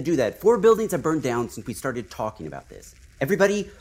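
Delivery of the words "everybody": calling out. Acted. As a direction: stretch it out and shout to everyone. Orders crowd to wheeze.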